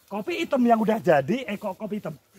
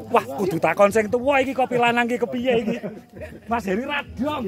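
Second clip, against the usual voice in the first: laughing. Real, not acted. Joking about asking the elder.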